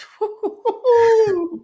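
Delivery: high burst of laughter; loud laugh. Real, not acted. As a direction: crack up out loud. Cracking up at the lyric.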